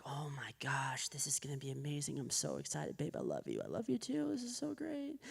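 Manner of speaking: breathless excited hush, mock giddy; hushed giddy excitement at the view; giddy whisper. Excited arrival at fancy hospital.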